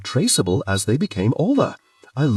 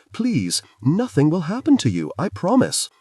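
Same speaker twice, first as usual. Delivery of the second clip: higher pleading reassurance; earnest higher plea; urging; 8 semitones higher than usual. A narrator's reading. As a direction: coax them to step forward. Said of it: "I urged".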